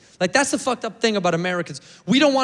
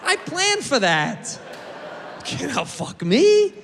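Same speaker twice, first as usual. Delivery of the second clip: mock boast; 6 semitones higher, slower than usual.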